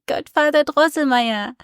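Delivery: put-on high, lively boy's call; Fred crying out. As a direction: call out to him, teasing. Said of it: "cried Fred".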